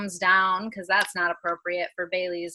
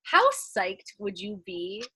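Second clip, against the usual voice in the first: ordinary talk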